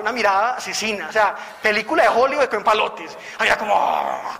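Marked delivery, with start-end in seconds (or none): 3.8-4.4 a short low mock growl from the possessed woman; demonic growl imitation. Retelling the possessed woman's murderous stare, a mock growl. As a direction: grunt it low, like the demon staring him down. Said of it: "como así".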